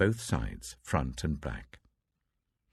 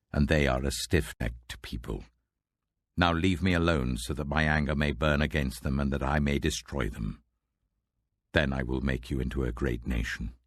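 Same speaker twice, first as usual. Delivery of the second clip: voice of the Lord; 2 semitones lower than usual. Acted. God speaks to Moses.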